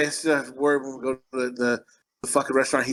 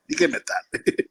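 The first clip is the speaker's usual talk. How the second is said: higher pleading put-on voice; playful higher husband voice; mock husband pleading; 13 semitones higher than usual. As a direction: coax her to admit it, voice raised.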